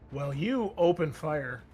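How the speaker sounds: ordinary talk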